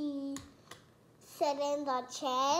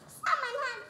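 mild Mama Bear voice; 9 semitones higher than usual. Retold or imitated. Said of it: "She said".

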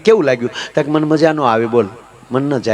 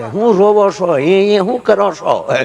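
scolding relatives; 2 semitones higher, slower than usual. Retold or imitated. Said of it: "ડોળા કાઢે".

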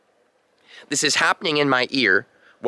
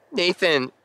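imitating panic; 5 semitones higher than usual. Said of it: "she was panicking".

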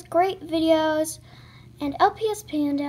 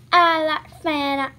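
playful answer; 6 dB louder, slower than usual. Pretend.

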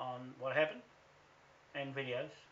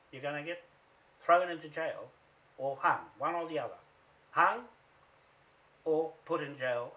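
threatening the lawyers, loud; loud threat; 7 dB louder than usual. Real, not acted. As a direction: spit out the threat.

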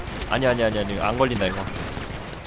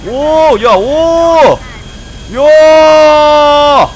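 loud, high thrilled yells; excited shouting; 12 semitones higher, 13 dB louder, much slower than usual. Real, not acted. Thrilled final flight.

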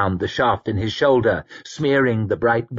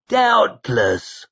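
dry dismissive; 10 semitones higher than usual. Acted. Koska cuts in dryly.

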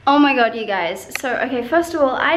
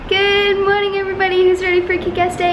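hyped-up greeting; 5 semitones higher than usual. Acted. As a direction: belt it out like a wrestling intro. Repeats intro, louder and higher.

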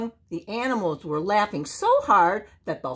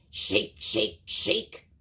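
breath-only whisper, rhythmic repeats; whispered shaking words; 9 semitones lower, 5 dB quieter, much slower than usual. A narrator's reading. Narrator acting out the bear shaking Joe, whispered. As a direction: whisper each shake like a sound effect.

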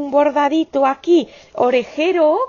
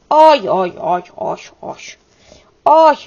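delighted ay; 6 dB louder, slower than usual. Real, not acted. Delighted at finished hat.

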